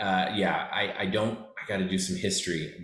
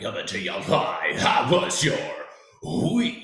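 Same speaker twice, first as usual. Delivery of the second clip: live break-in announcer; 2 semitones higher than usual. Shown as a demonstration. Podcast host demoing a live break-in voice. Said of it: "be like".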